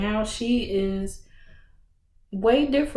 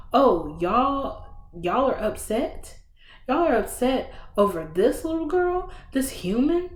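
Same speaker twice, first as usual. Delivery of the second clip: mocking villain; 4 semitones higher than usual. Villain mocks the angry lords.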